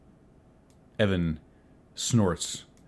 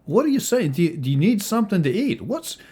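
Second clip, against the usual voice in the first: high, pushy barkeep voice, much louder; jovial innkeeper; 14 semitones higher, 4 dB louder, faster than usual. Acted. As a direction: fuss over guests like an overeager innkeeper. Tony presses the guest.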